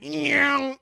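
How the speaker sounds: high revving car noise; imitated car zoom. Retelling a road-rage driver pulling up, imitated car zoom. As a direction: mimic a car speeding up angrily. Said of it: "He got so angry".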